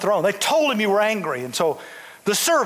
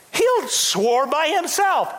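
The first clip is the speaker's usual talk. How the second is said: preaching shout; 6 semitones higher, slower than usual. Real, not acted. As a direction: hammer it home to the church. Preacher peaks.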